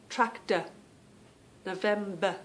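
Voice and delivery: "Tractor, November" each ending in a plain uh. Shown as a demonstration. Showing her word endings to viewers, "Tractor, November" ending in uh. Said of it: "we just have that uh".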